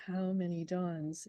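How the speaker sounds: slow, stress on many; how many dawns, lilting on MANY; dactylic question. Shown as a demonstration. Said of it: "beginning of a dactylic poem".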